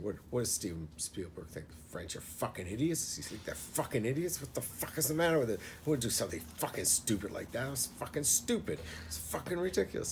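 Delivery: imitating dad's rising outrage, pitch climbing high and fast; mock outraged rant. Retelling dad ranting at Spielberg, mock outraged rising rant. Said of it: "he just kept saying".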